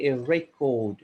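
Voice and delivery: RECORD as REK-ord, short "eh" first; noun pronunciation. Shown as a demonstration. Grammarian teaching the noun, record said REK-ord. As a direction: stress the first syllable of record. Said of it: "as a noun".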